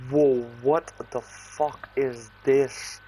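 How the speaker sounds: long slow drawn-out whoa of shock; stunned whoa. Retold or imitated. First high hitting him.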